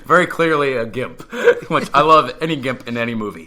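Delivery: amused, laughing as you talk. Real, not acted. Describing the gimp reveal.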